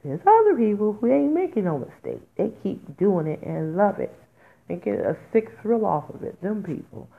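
really agitated, with loud bursts; worked up. Real, not acted. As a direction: let indignation push the voice up. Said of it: "I have to calm down".

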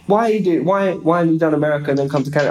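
rapid-fire mock interrogation; grilling official. Immigration officer questioning a traveller, grilling. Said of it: "really gave me a grilling".

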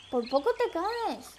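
scared cat, lightly acted; startled. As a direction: blurt it in alarm, pitch jumping up. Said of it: "Cascada le dice asustada".

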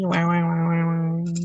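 mocking wah-wah whine; muffled wah wah talk. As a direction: imitate someone whining. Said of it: "He was just like".

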